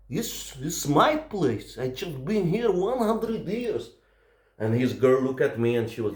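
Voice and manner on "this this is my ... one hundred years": slow, high-pitched mock indignation; Russian mode. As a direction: stake the claim slowly, drawing words out. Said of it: "I was in this Russian mall".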